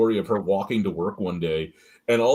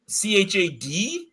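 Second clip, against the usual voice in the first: each letter said separately and slowly; spelled out slowly; 9 semitones higher, slower than usual. Retold or imitated. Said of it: "spelling letters out".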